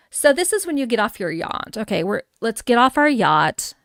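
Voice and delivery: lightly hammed-up snob, slightly lifted pitch; mock-snooty yacht-club invitation; snobby voice. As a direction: play at being a wealthy snob. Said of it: "That's my snobby voice in case you didn't get it".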